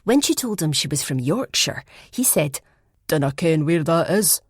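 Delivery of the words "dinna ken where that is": put-on light Fife Scottish accent; a hint of Fife accent. Shona imitating the punk boy in a light Fife accent. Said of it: "in her best Fife accent".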